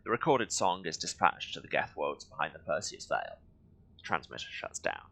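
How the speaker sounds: lightly read-aloud storytelling; story narration. Acted. Reads the game's mission text to viewers, narration.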